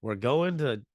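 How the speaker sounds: lightly put-on Oklahoma accent; a hint of mock hillbilly; easygoing imitation of an Oklahoma accent. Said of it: "made it sound like some hillbilly".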